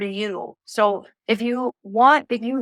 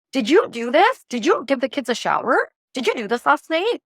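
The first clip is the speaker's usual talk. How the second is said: higher, accusing interrogation; mean nagging; 3 semitones higher than usual. Retold or imitated. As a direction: nag him like a mean controlling wife. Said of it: "The wounded masculine is very mean".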